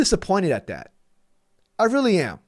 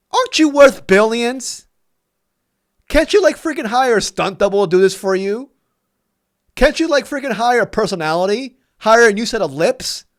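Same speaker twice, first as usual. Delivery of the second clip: raised, incredulous, fed-up voice; exasperated rant; 4 semitones higher, 5 dB louder than usual. Real, not acted. Fan ranting at the team owner, exasperated and raised. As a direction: vent loudly at the billionaire owner. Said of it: "my apologies if I came emotional".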